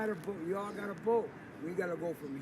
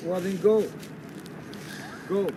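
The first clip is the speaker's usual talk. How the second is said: much louder, dismissive yell; angry shout; 9 dB louder than usual. Real, not acted. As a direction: order him off, fed up. Confronting the stranger.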